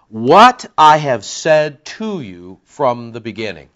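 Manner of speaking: slow dictation. Shown as a demonstration. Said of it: "You might want to write that down".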